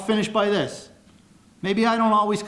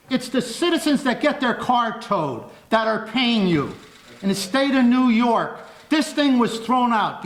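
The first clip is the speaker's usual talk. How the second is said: raised voice. Real, not acted. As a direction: press the accusation forcefully in a raised voice. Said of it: "taking your voice level down".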